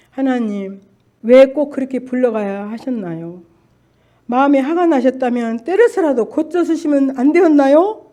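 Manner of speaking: loud pleading prayer, rising in anger; crying out to God. Retold or imitated. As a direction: argue with God, voice climbing. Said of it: "막 그러면서 하나님한테 또 막 이게 싸웠어요". (하나님께 울부짖으며 따지듯)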